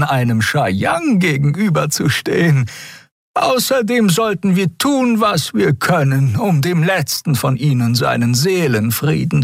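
hohe, langsame Stimme einer alten Frau; bedächtig und lächelnd sprechen; alte Xia, freundlich. Acted. (alte Xia erklärt den Freunden langsam und hoch)

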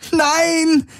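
high desperate scream. A narrator's reading. Kirai refusing arrest, high scream. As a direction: scream in horror. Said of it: "schrie Kirai".

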